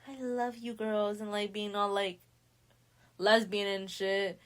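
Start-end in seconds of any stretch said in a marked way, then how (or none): 0.1-1.2 mock gushing affection. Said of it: "Candace is being very, like".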